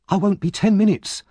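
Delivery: put-on high eager boy's voice; bursting to help. A narrator's reading. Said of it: "replied Oliver eagerly".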